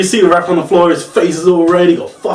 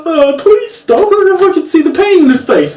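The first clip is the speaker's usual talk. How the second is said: mock-pained high plea; pleading wince; 5 dB louder than usual. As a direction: beg him to stop as if it hurts you. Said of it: "It's like".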